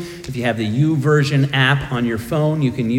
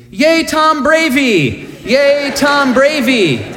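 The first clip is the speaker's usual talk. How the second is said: put-on much higher, louder, drawn-out child cheering; child's excited scream; 11 semitones higher, 4 dB louder, slower than usual. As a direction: cheer like a thrilled little kid. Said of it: "my son starts screaming".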